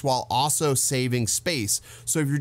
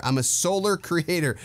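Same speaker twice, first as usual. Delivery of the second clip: vlogger voice; 5 semitones higher than usual. Retold or imitated. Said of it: "did I mention I'm a solar creator?".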